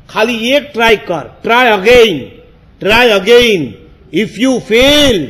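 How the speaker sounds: rousing voice from within; urging inner voice. Retold or imitated. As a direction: urge it on, stretching the last words. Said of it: "અંદરથી અવાજ આવ્યો".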